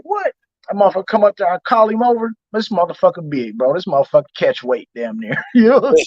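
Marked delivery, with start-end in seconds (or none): 0.0-0.3 mock surprise. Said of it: "They was like".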